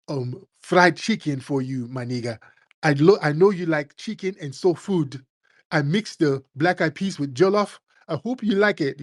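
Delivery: lightly voiced, sugary sweet imitation; mock mellow friendliness. Humbled immigrant offering food in a mild, sweet mock voice.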